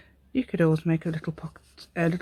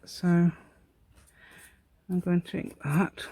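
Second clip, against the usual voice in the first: posh voice; 4 dB quieter, much slower than usual. Acted. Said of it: "I was doing posh voices".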